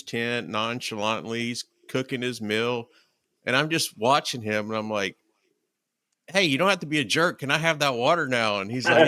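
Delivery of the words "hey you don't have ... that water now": quick, higher-pitched retold appeal; mock pleading. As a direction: blurt out a half-joking plea. Acted plea to hiking partner.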